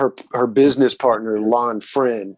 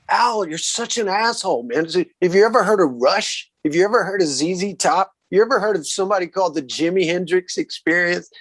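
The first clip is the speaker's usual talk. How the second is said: higher-pitched, scornful jabs; incensed retort; 5 semitones higher than usual. Retold or imitated. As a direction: needle him with indignant questions. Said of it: "like, incensed".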